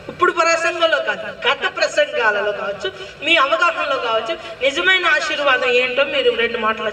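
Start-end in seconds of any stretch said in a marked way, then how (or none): 0.1-4.3 laughing. Real, not acted. Laughing prompt to congregation.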